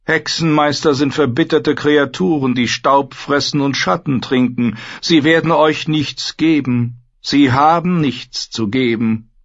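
a silken, coaxing trader; merchant Xaro. Acted. Xaro warns the queen, high and coaxing.

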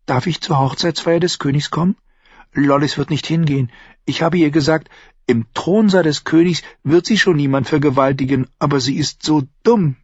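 junge Frau, höher gesprochen, neugierig; Shay. Acted. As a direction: fragt ihn leise drängend aus. Shay plaudert. (Shay, junge Frau, höhere Stimme)

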